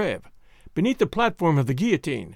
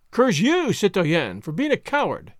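taunting curse; 3 semitones higher than usual. Acted. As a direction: spit the curse at him, mocking. Hag taunts a frightened soldier.

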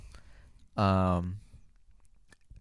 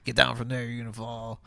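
man doing a woman's voice. Retold or imitated. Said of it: "I don't know why that was my mom voice".

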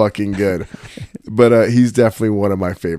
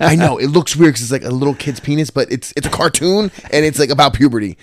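defensive explaining; 5 semitones higher than usual. Retold or imitated. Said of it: "I was like".

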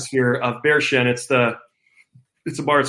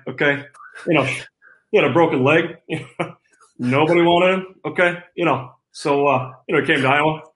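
lightly voiced coach impression, loose and filler-laden; Kirk Ferentz. Player as his own coach describing himself, lightly imitated coach voice. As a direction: size up a player as his coach would, in short bursts. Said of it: "Coach Ferentz, just, uh, run us down".

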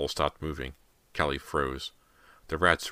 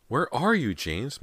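high, louder anxious mother; crying out; 9 semitones higher, 3 dB louder, slower than usual. A narrator's reading. Mother searches for her son, anxious high cry. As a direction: cry the question out, dropping on the name. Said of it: "Missus Fraser cried".

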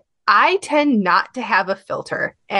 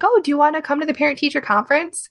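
husband's offer; 7 semitones higher, faster than usual. Retold or imitated. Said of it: "My husband was like".

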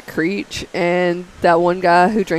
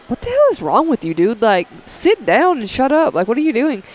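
higher, incredulous retold outburst; hammed-up disbelief at the coworker; mock exasperated yell; 5 semitones higher than usual. Scolding a screaming coworker, mock exasperated.

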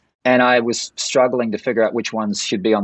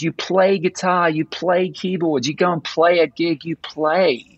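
slow list with "play" raised high each time; "play" drawn out and lifted, insistently; stress on PLAY; 6 semitones higher, slower than usual. Shown as a demonstration. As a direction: punch "play" in every item. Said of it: "people forget this word".

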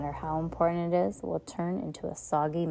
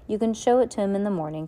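falsely soothing; 3 semitones higher, 3 dB louder, faster than usual. Acted. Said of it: "in a falsely soothing tone".

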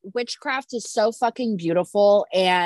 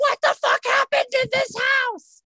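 shocked outburst; 13 semitones higher than usual. Retold or imitated. Friend imagining finding a dead baby on the altar, shocked high shout. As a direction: blurt it out in a high shout like you just walked in on it.

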